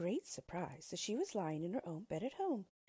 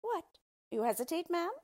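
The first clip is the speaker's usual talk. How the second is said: higher, louder impatient cry; dwarf's cry; 11 semitones higher, 7 dB louder than usual. Acted. Dwarf pressing the hesitant queen, loud impatient cry. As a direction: snap at her hesitation. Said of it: "cried the dwarf".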